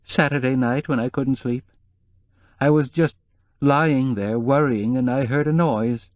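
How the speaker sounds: lightly voiced worried housekeeper; nervous housekeeper.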